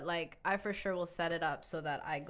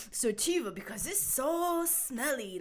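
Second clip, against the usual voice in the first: put-on a light, slow East Asian accent; 5 semitones higher than usual. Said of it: "that's my accent".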